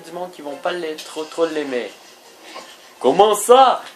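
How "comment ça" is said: indignant, high-pitched Russian caricature; offended Russian-accented broken French; mock Russian accent. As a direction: protest in a put-on Russian accent. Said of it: "Moi parler avec accent russe".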